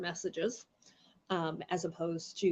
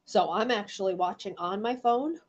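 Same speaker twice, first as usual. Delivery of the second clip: talking around a cough drop; mouth full. Real, not acted. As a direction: lozenge in the mouth. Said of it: "I have a cough drop in my mouth".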